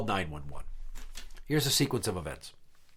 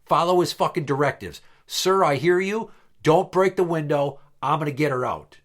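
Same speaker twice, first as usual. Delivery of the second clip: exasperated shouting; 4 semitones higher, 5 dB louder than usual. Retold or imitated. Yelling at ex and cop.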